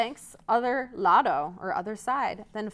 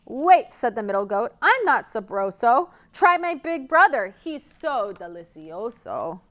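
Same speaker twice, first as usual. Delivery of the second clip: protesting goat; 5 dB louder than usual. Acted. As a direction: talk your way past the troll.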